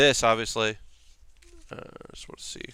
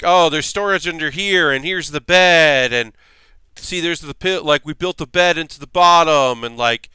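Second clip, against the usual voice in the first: hippie voice. Retold or imitated. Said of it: "I'm adding a hippie voice".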